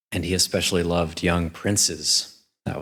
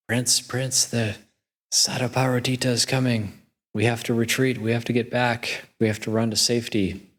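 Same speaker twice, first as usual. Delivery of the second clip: mock alarm; 6 semitones higher than usual. Generals warn the prince to run to safety, in high-pitched mock alarm. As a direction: act out panicky generals urging a retreat.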